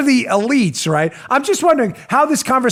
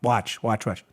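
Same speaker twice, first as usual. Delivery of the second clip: mock dramatic; 11 semitones lower, 11 dB quieter, slower than usual. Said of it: "can I do the drama?".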